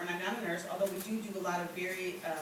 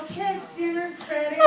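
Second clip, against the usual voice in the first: high dinner-time call; calling the kids; 9 semitones higher, 4 dB louder than usual. Acted. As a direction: call out to the kids, pitched well up.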